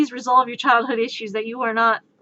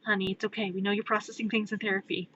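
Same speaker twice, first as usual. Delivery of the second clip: soothing; 7 dB quieter, faster than usual. Acted. Partner soothes Batman.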